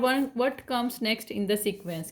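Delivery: very slow, deliberate reading; slow read-aloud. Shown as a demonstration. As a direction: read the question out very slowly, word by word. Teacher reads worksheet question aloud.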